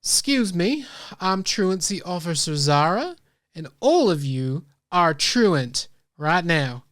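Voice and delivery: a hint of an officious officer; stern truancy officer. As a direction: announce yourself with slow, measured authority. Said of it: "The Leonin steps forward and says".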